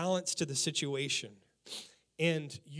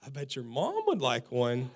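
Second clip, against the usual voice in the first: sly laughing suggestion; 3 semitones lower, 4 dB louder, slower than usual. Retold or imitated. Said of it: "and he goes".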